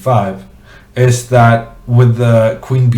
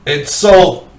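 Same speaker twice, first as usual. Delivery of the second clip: higher, louder final sold; playful auctioneer; 7 semitones higher, 4 dB louder than usual. Pretend. Mock auction closing.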